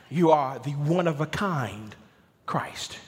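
"one-of-a-kind" lifted and leaned on; stress on one-of-a-kind. Shown as a demonstration. Preacher explains the article's meaning, stress on "one-of-a-kind". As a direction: punch "one-of-a-kind", pause, then drop on "Christ". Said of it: "The definite article is important".

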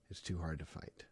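put-on discouraged teen. Discouraged boy's reply.

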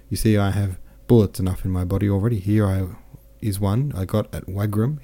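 lightly voiced, lively boastful officer; a hint of a jovial soldier bragging; cheerful French captain. Captain boasts of his wounds to Pierre, lightly voiced jovial.

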